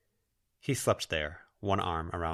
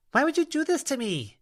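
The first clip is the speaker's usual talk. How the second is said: high, louder, wounded cry; hurt outcry; 6 dB louder than usual. Acted. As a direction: cry it out, betrayed. Lucy confronts the spirit.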